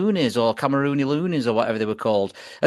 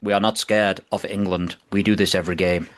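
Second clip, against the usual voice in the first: low, measured player's reply; Cameroon player; 6 semitones lower than usual. Retold or imitated. Host retells a player answering the England manager, low steady voice. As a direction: quote him low and deliberate. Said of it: "one of the Cameroon players turns around and says".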